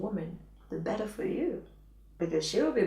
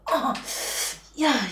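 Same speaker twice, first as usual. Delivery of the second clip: demo moan; 5 semitones higher, 4 dB louder than usual. Shown as a demonstration. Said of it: "You go".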